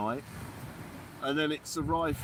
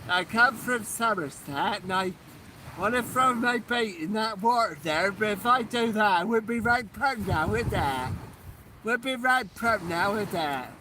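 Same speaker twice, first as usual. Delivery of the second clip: mock Somerset accent; 2 semitones higher than usual. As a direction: play a proud Somerset fisherman. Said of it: "I like that accent".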